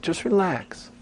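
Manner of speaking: soothing, hushed "Just relax" to a data person; coaxing storyteller. Retold or imitated. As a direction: gently coax a reluctant listener. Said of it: "It's like".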